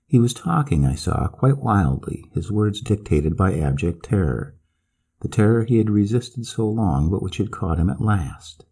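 usual speaking voice

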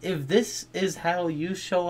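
excited. Real, not acted. Hyped reaction to trailer squad.

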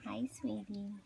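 whisper. Real, not acted. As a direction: breathe it gently to the infant. Mother whispering to baby.

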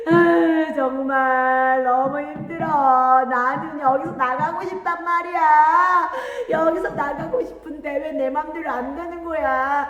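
loud, high, drawn-out storybook wailing. A narrator's reading. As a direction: bawl the words like an upset child. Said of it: "울었어요". (엉엉 울며 하소연하는 목소리)

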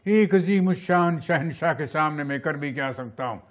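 lightly dramatic film prince; Dilip Kumar. Shown as a demonstration. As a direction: answer the emperor as a wronged son. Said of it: "Dilip Kumar".

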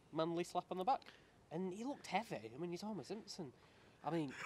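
rehearsed monologue delivery; dramatic monologue. Acted. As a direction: perform a tall tale to an audience, pitch lifted.

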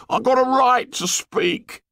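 put-on high hurt pleading boy. A narrator's reading. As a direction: insist while wounded. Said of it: "said Piggy in a hurt voice".

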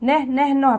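short separate "نه" syllables; letter N sound. Shown as a demonstration. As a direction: sound out N as "نه", beat by beat. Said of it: "حرف ال N بيتنطق". (نطق صوت الحرف "نه" مقاطع قصيرة منفصلة)

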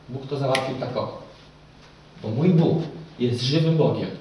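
loud, driven sermon delivery, pressing each phrase; fervent preaching. Acted. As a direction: preach it to the whole hall with full force. Preacher addresses the congregation.

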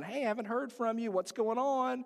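quick, lightly acted parental nagging; lightly voiced worried parent. Parent phoning a kid away at camp, lightly voiced checking-in.

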